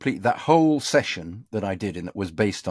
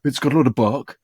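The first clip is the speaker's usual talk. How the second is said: voiced director; 3 semitones higher than usual. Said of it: "I've asked for a direction".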